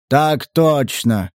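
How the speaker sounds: lightly voiced giant, very slow; drawn-out, dutiful acknowledgement; obedient giant. Giant acknowledging Stas's orders, slow and obedient.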